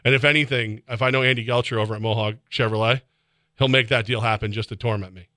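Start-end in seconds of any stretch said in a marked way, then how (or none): none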